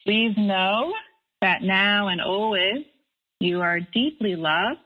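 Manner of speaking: slow, gentle reassurance; slow down and reassure them they are loved; tender blessing. Real, not acted. Blessing the listeners.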